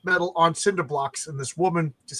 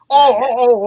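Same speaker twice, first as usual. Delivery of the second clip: loud, sudden oh of realization; mock surprise; 6 semitones higher, 11 dB louder, slower than usual. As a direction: act out a sudden embarrassed realization. Mock realization in acted dialogue.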